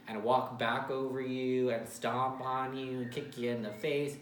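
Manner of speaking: drawn-out, weighty phrasing; slow, deliberate emphasis. Real, not acted. Telling Leo how they let people walk over them, slow and emphatic. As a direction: spell it out slowly, leaning on key words. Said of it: "why I'm talking like this".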